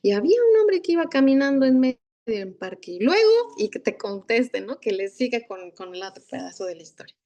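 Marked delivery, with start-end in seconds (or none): 0.0-3.5 storytelling voice. Shown as a demonstration. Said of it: "Yo voy a empezar una historia".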